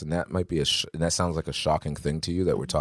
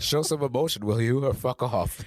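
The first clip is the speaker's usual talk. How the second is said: lightly imitated celebrity chef, higher at the start; Chef Ramsay quote; 5 semitones higher than usual. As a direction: quote the chef's rebuke, slowing into the last words. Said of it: "to quote Chef Ramsay".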